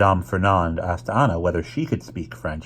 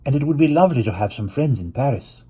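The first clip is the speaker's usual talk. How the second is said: Mama voiced; 6 semitones higher than usual.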